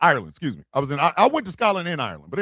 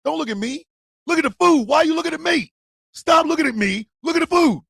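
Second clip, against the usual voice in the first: retold protest. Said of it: "I said".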